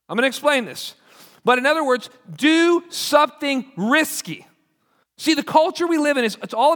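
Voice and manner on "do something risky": slow, pressed punchline; spelled out slowly for the crowd; slow emphasis. Acted. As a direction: hammer it home slowly. Preacher drives home point.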